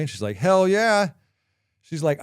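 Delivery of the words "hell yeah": loud, high emphatic outburst; retold indignant yell; imitated angry wife. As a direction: fire back loudly, pitch jumping up. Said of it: "she let me have it".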